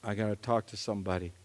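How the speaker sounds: hushed, despairing self-talk; quiet despair. Retold or imitated. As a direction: sigh it out to yourself, defeated. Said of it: "I said".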